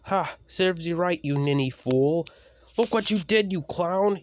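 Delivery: gloating snap. Acted. Tyler gloating over Ethan off the rails, loud mocking yell. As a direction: jeer at the fallen engine. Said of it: "he snapped".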